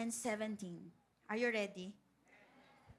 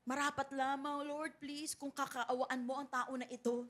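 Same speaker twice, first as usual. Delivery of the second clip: pleading; 4 dB quieter than usual. Retold or imitated. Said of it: "nakikiusap at nagmamakaawa".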